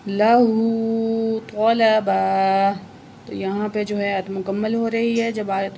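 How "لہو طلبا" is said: طلبا drawn out slowly; slow recitation. Shown as a demonstration. Teacher reciting the verse ending. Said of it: "ایک زبر پڑھیں گے".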